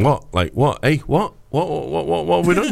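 high, baffled protest of a manager playing dumb; imitating Bielsa's baffled innocence. Pundit mimicking a coach caught spying, high baffled protest. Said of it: "Bielsa being".

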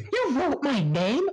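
high hammed-up shrieking disbelief; mock anime melodrama; over the top yelling. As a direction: overact the shocked yell. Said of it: "over the top yelling".

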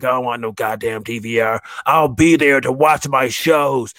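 wife swearing she needs no DVR, mock yell. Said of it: "my wife was like".

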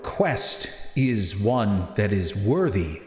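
slow, measured, solemn pronouncement; unhurried character voice with weighty pauses; Natius. Acted. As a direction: speak slowly and deliberately, like a grave quest-giver. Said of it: "He looks back at you and says".

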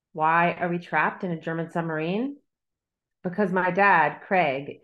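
measured, deliberate reading of her own novel; a calm, steady author's reading; story narration. A narrator's reading. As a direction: read it like an author at a book event. Author reads her novel aloud.

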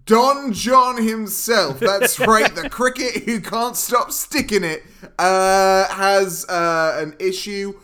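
animated storyteller with drawn-out emphasis; theatrical film recap. Acted. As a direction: narrate the plot like a mock-grand showman.

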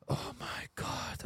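breathless slow whisper. Real, not acted. Recalling the awkward stall scene to a friend, a slow whisper. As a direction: breathe it out in disbelief.

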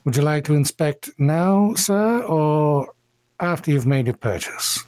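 cultured elven gentleman. Acted. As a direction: answer with courteous, cultured formality. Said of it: "in very cultured common says".

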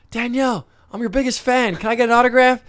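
high, gushing fan voice; mock eager fan. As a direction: squeal it like a starstruck kid fan. Imitating self as eager fan.

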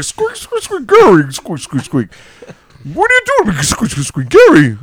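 very high squeaks with pleading Gary; squeaky filter voice. Retold or imitated. Imitating the squeaky filtered video for laughs, very high. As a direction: squeak like a chipmunk filter begging. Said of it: "all you'd hear is, like".

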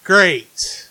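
slow, heavy sarcasm; retold weary dismay. Viewer seeing a hated story coming, slow dismay. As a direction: separate each phrase with a sinking groan of disapproval.

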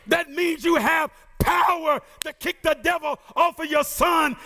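urgent preacher's rhythm, building through the list; preaching. Acted. Preacher urging the church to kick the devil out, urgent preaching. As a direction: rouse the church to fight back.

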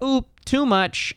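high, slow, prissy little app warning; mock app voice. Mimicking the phone app nagging him, high and slow. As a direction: sing it like a cutesy phone alert.

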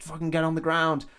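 mock barked order. Armed guys' order, retold.

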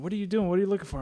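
a hint of a baffled wife; puzzled wife. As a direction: ask as a bemused wife. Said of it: "my wife is wondering".

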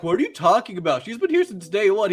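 mock-indignant correction; acted bafflement. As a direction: mimic incredulous classmates. Classmates baffled by Kyon, acted.

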